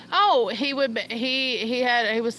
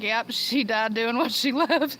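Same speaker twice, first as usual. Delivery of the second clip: mock eulogy. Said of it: "They're gonna be like".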